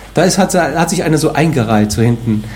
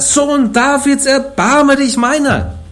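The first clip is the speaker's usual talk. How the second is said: very high, slow, drawn-out cry; crying out even more; 12 semitones higher, much slower than usual. Acted. Blind Bartimäus crying over the rebuking crowd, very high. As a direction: beg with everything you have. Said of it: "Er aber schrie umso mehr".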